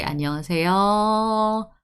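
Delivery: "안녕하세요" with the last 요 relaxed towards "어"; "안녕하세요" with a lazy, open ending; lighter final yo. Shown as a demonstration. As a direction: leave the 요 of "안녕하세요" half-pronounced. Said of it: "I didn't pronounce yo".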